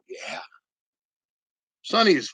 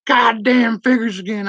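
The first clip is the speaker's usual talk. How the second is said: wife voice; 7 semitones higher than usual. Retold or imitated. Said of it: "She's like".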